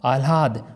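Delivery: first आह्लाद as "aal-haad", l first; wrong pronunciation. Shown as a demonstration. Teacher contrasts two versions, mispronounced. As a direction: put the h after l in आह्लाद. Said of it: "दोनों में देखिए अंतर".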